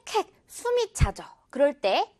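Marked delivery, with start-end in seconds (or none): 0.1-0.3 light imitated panting, higher; a little playful huffing; mock panting. Shown as a demonstration. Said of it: "이렇게". (장난스럽게 흉내 낸 헉헉거림)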